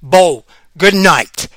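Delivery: good night stretched slowly; slow drawn-out. Pretend. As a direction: draw out each word. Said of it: "I'm telling you".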